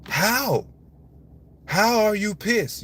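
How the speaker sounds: genuinely can't believe he's still angry; rising disbelief; incredulous outburst. Real, not acted. Incredulous at angry retired father.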